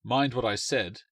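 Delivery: slow, measured stern warning; a lightly voiced father, serious again; intoning father. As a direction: intone it gravely. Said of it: "her father intoned".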